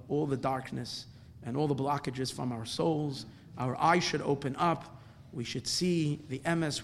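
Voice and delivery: measured, solemn blessing; closing prayer. Real, not acted. Closes with a prayer.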